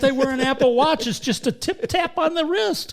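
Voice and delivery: high, loud talk through laughter; squeaky-high amused delivery, laughing. Real, not acted. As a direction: crack up while piling on the joke. Joking along while cracking up.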